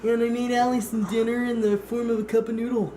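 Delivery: put-on posh fancy voice. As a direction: talk in an exaggerated fancy voice. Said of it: "Why are you talking like that?".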